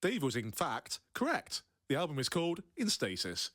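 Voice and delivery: deliberate, measured announcement; patched-in fact check. Pretend. Co-host patches in a correction on the album title, mock-official fact check. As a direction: read it like a formal correction insert. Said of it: "We'll patch in".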